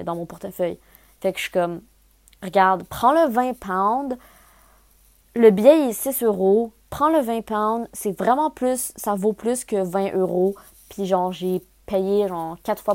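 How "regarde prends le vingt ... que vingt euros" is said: slow, emphatic retold plea; re-enacted insistent haggling; insistent pleading. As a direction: bargain hard, stressing each point. Retelling her plea to ticket clerk.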